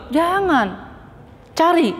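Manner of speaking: sharp high jangan, cut short; emphatic don't. Real, not acted. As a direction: stop them firmly. Larangan tegas kepada jamaah. (Jangan diucapkan tinggi dan tegas)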